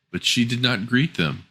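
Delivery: ordinary delivery, nothing marked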